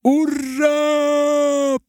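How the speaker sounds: very high, very slow, loud victory cry; a hammed-up cheer; triumphant shout. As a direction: draw it out in triumph. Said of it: "победно закричали".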